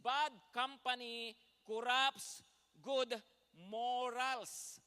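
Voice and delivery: each word hammered slow and loud; slow loud emphasis. Shown as a demonstration. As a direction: drive the verse home word by word. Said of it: "Sabi po niya ulit sa English". (mabagal at malakas na pagdidiin)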